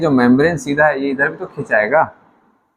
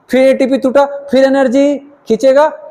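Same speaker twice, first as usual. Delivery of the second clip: rhythmic emphasis; 8 semitones higher than usual. Shown as a demonstration. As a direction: drive each step like a pump. Rhythmic contraction cycle recited.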